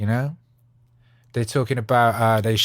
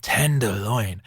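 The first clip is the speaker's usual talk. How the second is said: slow naming; much slower than usual. Shown as a demonstration. Repeats name slowly.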